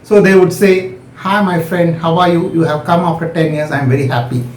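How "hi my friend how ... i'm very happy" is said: flat voice with no inflection; monotonous. Shown as a demonstration. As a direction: say it without any melody. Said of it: "So a monotonous, there'll not be inflections".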